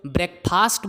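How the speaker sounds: ब्रेकफास्ट as brek-PHAAST with puffed p; aspirated p instead of f in ब्रेकफास्ट; very wrong pronunciation. Shown as a demonstration. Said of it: "बिल्कुल ही गलत है".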